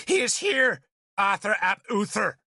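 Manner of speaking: high-pitched sneer. A narrator's reading. Nimue answering Arthur in Merlin's place, sneering. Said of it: "she said with a sneer".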